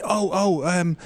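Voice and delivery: mock Midlands accent, groping for the word. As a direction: do the fan's Midlands voice, searching for a name. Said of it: "nice Midlands accent there".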